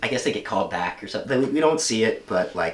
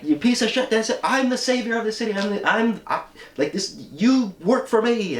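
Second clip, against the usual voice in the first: high, loud ranting tantrum; losing it; 12 semitones higher, 3 dB louder than usual. Retold or imitated. Lex ranting at Superman, high furious tantrum. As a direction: rant like a man losing control. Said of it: "he's losing it".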